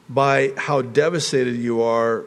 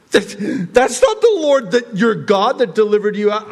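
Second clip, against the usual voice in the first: high, raised-voice correction; indignant loud protest; 9 semitones higher, 6 dB louder than usual. Acted. God rejecting the golden calf, loud indignant protest. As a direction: protest hotly at the false claim.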